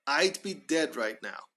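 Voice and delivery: slow demo phrase. Shown as a demonstration. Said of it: "you can say".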